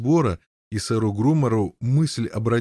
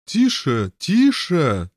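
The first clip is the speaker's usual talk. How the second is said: rising shout of hush, louder on the second; a second «тише» higher and louder; 5 semitones higher, 4 dB louder, slower than usual. Acted. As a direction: try to hush him urgently. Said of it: "закричал сэр Паламид".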